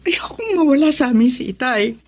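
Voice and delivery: whispered through tears, barely voiced; tearful whisper. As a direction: hold back the tears and breathe the words out. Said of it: "huwag kang umiyak".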